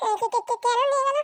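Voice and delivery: stammer, then push the question up high; startled stammer. Acted. Startled stammered question about being taken.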